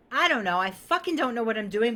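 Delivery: half-shouted confession of not knowing; frustrated outburst. Retold or imitated. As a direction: blurt it out like a fed-up leader. Quoting bold clients.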